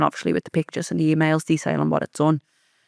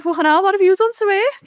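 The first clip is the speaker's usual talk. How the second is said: much higher, jokey retold exclamation; retold amused disbelief; 13 semitones higher, 4 dB louder than usual. Joking to a stranger after the woman ran off, high retold amused disbelief. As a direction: pitch it right up, lightly mock-incredulous. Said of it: "I just laughed and I went".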